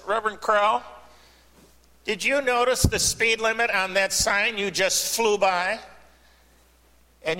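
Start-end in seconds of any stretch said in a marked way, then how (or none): 0.0-5.8 stern trooper. Acted. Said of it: "the trooper says".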